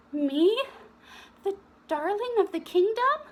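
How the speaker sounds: high, quick thrilled squeal; excited girl. Acted. Viola thrilled by the invitation.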